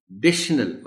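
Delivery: डिशनल with a punched डि; stress on D. Shown as a demonstration. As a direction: hit the opening D of डिशनल. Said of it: "डी पर stress के साथ".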